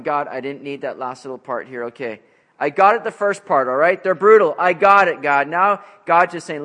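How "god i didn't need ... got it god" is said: louder, exasperated prophet pleading; Habakkuk protesting. Acted. Habakkuk begging God to stop, loud exasperated protest. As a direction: tell God you've heard enough.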